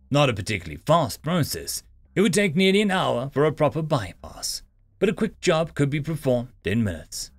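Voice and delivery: measured, emphatic sci-fi audiobook read; story narration. A narrator's reading. Narrator telling listeners of an augmented human, story narration. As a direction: narrate firmly with deliberate phrase breaks.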